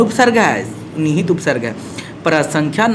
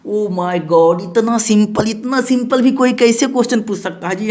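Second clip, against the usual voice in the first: mock disbelief; 3 semitones higher than usual. Mock disbelief at easy question.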